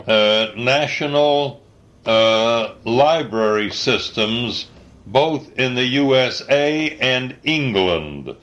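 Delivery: slow dictation, punctuation spoken aloud; dictating. Real, not acted. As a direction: dictate it word by word to a typist.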